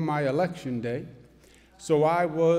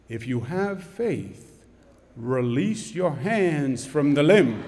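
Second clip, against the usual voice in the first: God's voice; 3 semitones lower, slower than usual. Acted. God's voice commands.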